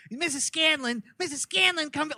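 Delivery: high, desperate calls after her; mock frantic calling after a stormed-out mom. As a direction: call her back, voice cracking high. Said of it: "he's like".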